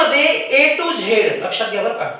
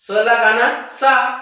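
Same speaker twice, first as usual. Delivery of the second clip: slow spelling-out; slower than usual. Shown as a demonstration.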